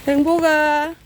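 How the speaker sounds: called out loud and high; calling out. Real, not acted. Calling the cat Haengbok over to eat, loud and high.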